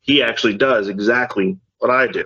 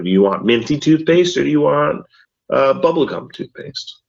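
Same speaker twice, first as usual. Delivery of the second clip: bright choosing voice; 5 semitones higher than usual. Retold or imitated. Dad offering toothpaste choice.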